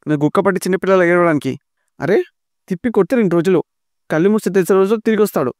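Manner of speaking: high, sarcastic ribbing; mocking tease. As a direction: make fun of her tears. Tirupati mocks his crying sister.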